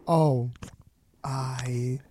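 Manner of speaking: whispered mumbling bro; frat bro mumble. Retold or imitated. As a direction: trail off into a mumble. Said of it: "that's all I get".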